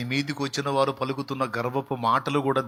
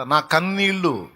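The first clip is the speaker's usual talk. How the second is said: lament; 5 semitones higher, 3 dB louder, slower than usual. Acted. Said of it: "చూడండి అక్కడ".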